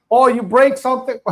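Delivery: mock Chinese accent through a laugh; a laughing, hammed-up Chinese restaurant owner accent; playful imitation of a Chinese accent, chuckling. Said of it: "Sorry for doing the Chinese accent".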